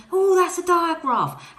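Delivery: a light bright mock realisation; child's brain noticing the digraph, lightly voiced; imagined brain voice. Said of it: "tell their brain".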